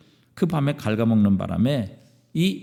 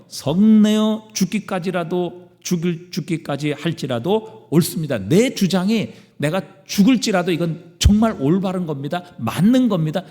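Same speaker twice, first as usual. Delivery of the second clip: acted angry insistence, pitched up; 5 semitones higher, 3 dB louder than usual. Jonah argues with God that he is right, angry. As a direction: argue back heatedly in a higher voice. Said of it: "화를 내며".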